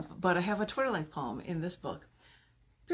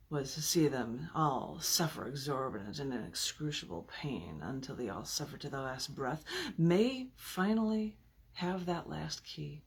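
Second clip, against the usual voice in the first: calm, measured reading of a sinister poem; 3 semitones lower than usual. Acted. Reads villain persona poem.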